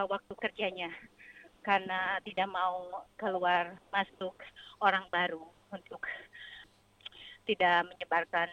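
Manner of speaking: out of breath from running; talking while jogging, breathing hard. Real, not acted. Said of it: "saya lagi lari".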